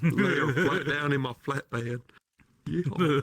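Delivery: southern twang attempt over British vowels; badly faked southern accent, played for laughs; mock southern accent. Brit joking about his flatbed, mock southern accent. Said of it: "British accent behind it".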